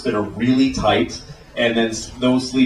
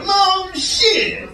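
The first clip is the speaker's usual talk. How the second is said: very high, drawn-out caricature; stereotyped street-talk voice. Acted. Comic demonstrating weird talk, high exaggerated imitation. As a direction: stretch it out in a high mocking imitation. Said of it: "It's weird to go".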